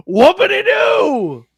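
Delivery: high, slow sarcastic whoop; mock cheer, dripping sarcasm. Sarcastic dismissal.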